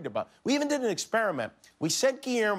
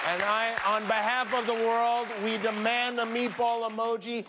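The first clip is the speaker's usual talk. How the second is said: fanatical zeal; 4 semitones higher than usual. Acted. The speaker's mock crusade declaration.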